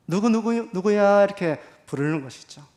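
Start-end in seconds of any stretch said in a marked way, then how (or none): 0.1-1.2 warm calling. Shown as a demonstration. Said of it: "따뜻하게".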